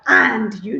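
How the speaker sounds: "And you" with a full, separate "And"; deliberate, unlinked "And you"; over-careful "and you". Shown as a demonstration. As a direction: pronounce "And" fully, then rising "you".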